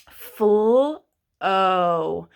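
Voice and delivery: "Full O" with a long stretched o; sounding out. Shown as a demonstration. Teacher isolating the long o for kids. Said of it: "I hear an O saying its name".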